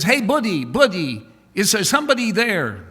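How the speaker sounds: loud, high, fast call to a stranger; a blind man calling into the street. Acted. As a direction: call out for someone nearby.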